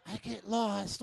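mock preacher shout; shouted confession. Shown as a demonstration. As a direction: bellow it out like a revival shout. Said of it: "what's wrong with you?".

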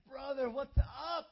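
loud, slow, high greeting; big happy hello; excited shout. Retold or imitated. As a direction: call out to an old friend with joy. Greeting old friend warmly.

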